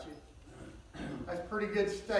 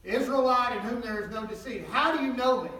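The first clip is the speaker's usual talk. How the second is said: astonished; 5 semitones higher, 7 dB louder than usual. Acted. Nathanael astonished at Jesus' words.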